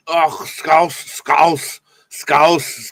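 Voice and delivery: badly faked Scouse accent; fumbling, put-on Scouse; attempted Scouse accent. Shown as a demonstration. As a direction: have a rough go at Scouse, repeating the word. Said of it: "I was putting on a Sc-, Scouser, Scouser accent".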